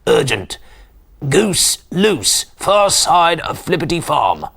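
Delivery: lightly disguised urgent caller; a hint of an urgent phone caller. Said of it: "disguising his voice".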